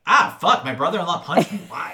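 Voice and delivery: loud, high, laughing yelp; laughing mock outrage. Walt punched, retold.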